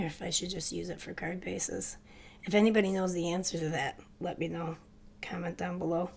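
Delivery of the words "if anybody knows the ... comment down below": blocked nose from a head cold; stuffy nose. Real, not acted. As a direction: talk through a congested nose. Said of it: "Does it sound a little stuffy?".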